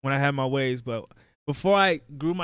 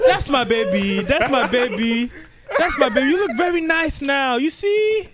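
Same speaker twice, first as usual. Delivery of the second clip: doting relative; 4 semitones higher than usual. Retold or imitated. Relative praising haircut.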